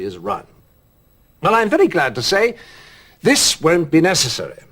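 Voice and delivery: measured, formal broadcast delivery; presidential address. Acted. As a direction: address the nation from the desk. Politician's broadcast address to camera.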